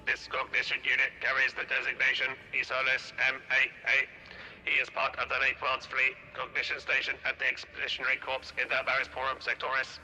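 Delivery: tinny radio transmission. Shown as a demonstration. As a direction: read it like a radio broadcast. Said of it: "This is the radio voice".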